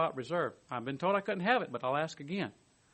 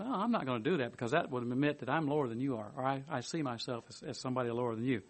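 proud disciple; 2 semitones lower, 4 dB quieter than usual. Retold or imitated. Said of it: "their pride says".

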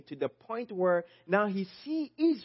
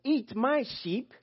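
higher-pitched, stern rebuke in a quoted warning; 5 semitones higher than usual. Retold or imitated. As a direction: deliver a reported accusation sternly, pitched up. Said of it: "He warned shepherds sternly and said".

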